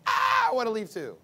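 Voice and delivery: mock weary husband sighing to leave; half-laughing husband wanting out; husband's groan. Husband coming home to chaos, mock weary. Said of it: "your husband comes home and he's like".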